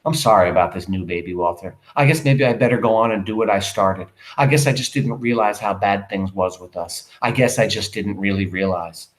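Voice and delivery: low, subdued, resigned apology. Acted. Wife apologizing to husband about the baby, resigned. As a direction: let it sink low, understated. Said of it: "with resignation".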